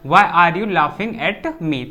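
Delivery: very slow, word by word for the class; slow dictation. Shown as a demonstration. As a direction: spell it out slowly so students can write. Teacher dictating English sentence slowly. (बहुत धीरे, शब्द-दर-शब्द बोलना)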